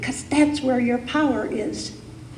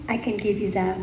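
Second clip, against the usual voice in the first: the universe granting abundance, lower and softer; a soft, lower reply from the universe; the universe, gently; 4 semitones lower, 5 dB quieter, faster than usual. Acted. The universe promising abundance to the congregation, lower and softer. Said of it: "the universe always says yes".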